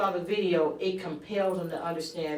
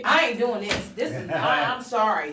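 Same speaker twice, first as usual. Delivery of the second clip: tag; 3 semitones higher, 4 dB louder than usual. Retold or imitated. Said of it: "probably more like".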